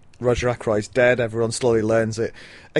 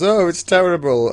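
mock distraught; 6 semitones higher, 5 dB louder than usual. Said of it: "runs in and goes".

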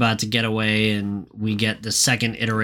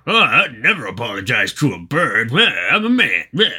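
a hint of Fred, whining mockingly; lightly voiced Fred mimicking a crybaby. Fred refuses to apologize to the bird, mocking whine.

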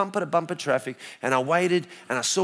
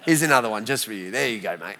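God's voice; 8 semitones lower, 4 dB quieter, faster than usual. Retold or imitated. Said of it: "He's like".

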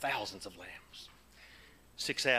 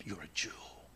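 softer, lower, a gentle assurance; soft tender words; 6 semitones lower, 8 dB quieter than usual. Acted. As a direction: say it like a loving secret. God tenderly to his people.

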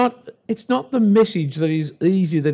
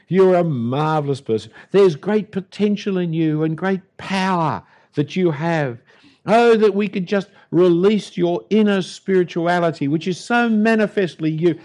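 mock flattery; 2 semitones higher than usual. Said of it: "the New Age kind of message".

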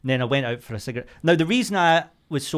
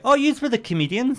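put-on girls' voice; 12 semitones higher, 4 dB louder than usual. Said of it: "they were like".

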